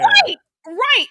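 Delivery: high, loud burst of agreement; emphatic yelled right right; loud excited agreement. Real, not acted. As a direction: jump in fired up and loud. Excited agreement in heated talk.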